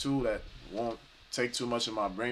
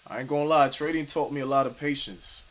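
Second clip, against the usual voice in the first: excited; 3 semitones higher, 6 dB louder than usual. Real, not acted. Trader hyped about the lesson.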